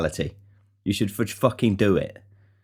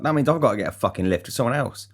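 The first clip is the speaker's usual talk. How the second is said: higher, irritated pleading; annoyed at losing his lift home; exasperated plea; 6 semitones higher than usual. Retold or imitated. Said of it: "I was like".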